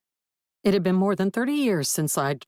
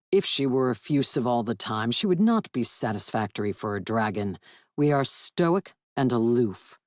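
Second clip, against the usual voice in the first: a lightly voiced stately dragon, somewhat lower; proud dragon; 5 semitones lower than usual. Dragon praising his mate to Willard, lightly lower and stately. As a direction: speak as a stoic, aloof dragon lord.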